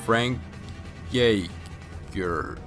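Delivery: ordinary talk, nothing marked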